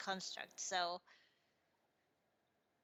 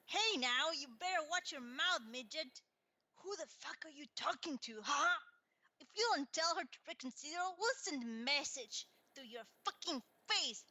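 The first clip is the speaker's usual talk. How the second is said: menacing bully; 4 semitones higher than usual. Acted. GM voices threatening bully.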